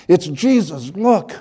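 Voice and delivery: put-on high, thrilled calls of a small child; excited child screaming. Child hugging her grandparents and calling out, excited high shout. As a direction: point him out with pure delight. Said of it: "between screaming his name and hugging us".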